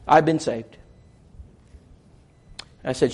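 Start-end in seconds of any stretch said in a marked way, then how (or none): none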